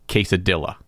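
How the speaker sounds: QUESADILLA said anglicised, with a hard L; deliberately mispronounced. Shown as a demonstration. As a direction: say QUESADILLA as if rhyming with "killa". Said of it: "Do you pronounce it".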